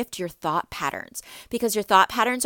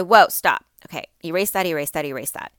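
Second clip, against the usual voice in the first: interrupting yourself; 2 semitones lower, 4 dB louder than usual. Shown as a demonstration. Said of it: "you can say".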